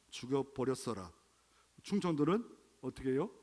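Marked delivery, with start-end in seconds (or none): 0.1-1.1 put-on Jeolla accent. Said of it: "전라도는".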